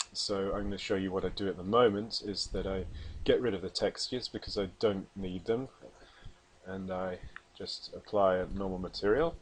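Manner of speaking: breathless, talking between breaths. Real, not acted. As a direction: speak short of air after exertion. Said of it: "Oh, I'm out of breath".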